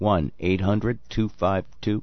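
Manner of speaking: mechanical, robotic delivery with robot-like repetition. A speaker repeats a call-in phone number yet again, sounding like a robot. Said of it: "I'm sounding like a robot".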